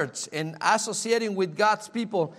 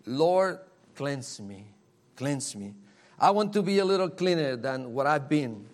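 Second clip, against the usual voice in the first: hushed, pleading prayer to the Lord; quiet prayer; 4 semitones lower than usual. Shown as a demonstration. Preacher models a prayer for the congregation, hushed and pleading. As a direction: softly beg to be cleansed.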